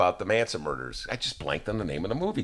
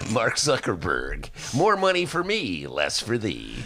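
sly sneering weasel voice; a sly, greedy sneer; slower than usual. Acted. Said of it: "I love Ben's weasel voice".

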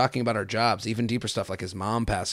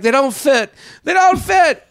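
much higher, louder mock whining child; hammed-up teenage protest, pitched way up; whiny kid self; 7 dB louder than usual. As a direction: younger self whining back at mom in the store. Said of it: "And I'd be like".

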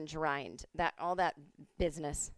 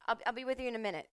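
higher, fast brush-off; busy bartender; 4 semitones higher, much faster than usual. Retold or imitated. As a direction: rattle off I'll be with you in a minute as a quick dismissal. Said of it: "is like".

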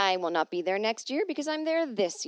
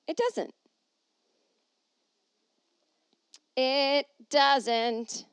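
mock despair; 6 semitones higher, 5 dB louder, much slower than usual.

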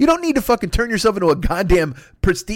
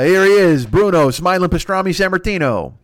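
ring announcer. Acted. Wrestling ring introduction.

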